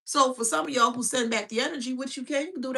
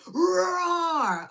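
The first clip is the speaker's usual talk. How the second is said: mock roar; 6 semitones higher than usual. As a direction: roar like a cartoon dragon, half laughing. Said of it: "when you laugh at the roar".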